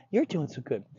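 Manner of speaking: lightly sweetened praise; a touch of sing-song praise to a dog; positive inflection. Shown as a demonstration. Trainer praising a dog, positive inflection. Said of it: "Positive tones and inflections".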